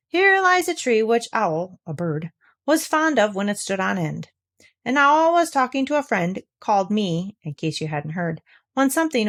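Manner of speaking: rhythmic sing-song poem recital; recited poem. Acted. Pooh reciting his new hum to himself, sing-song. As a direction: chant it like a children's hum.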